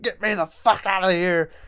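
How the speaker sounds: high, strained mock yell; Chucky yelling in closet. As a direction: yell to be let out, without full volume. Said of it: "when he's yelling in the closet".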